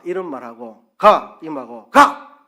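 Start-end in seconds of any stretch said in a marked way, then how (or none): 1.0-1.4 "가" louder and higher, pushed. Shown as a demonstration. Preacher showing intonation, a louder, higher "가". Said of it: "이거하고 말이 다르잖아요". 1.9-2.4 "가" much higher and much louder, almost shouted; sharp high ga. Shown as a demonstration. Preacher showing intonation, a sharp high shouted "가". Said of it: "이거하고 말이 다르잖아요".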